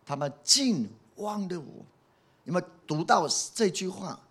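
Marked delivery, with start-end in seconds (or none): 0.0-1.8 上帝难以置信地诉说，拖慢、音调抬高; slow, higher-pitched hurt disbelief; 上帝伤心. Acted. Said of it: "祷告上帝的心是这样子的". (伤心地慢慢控诉)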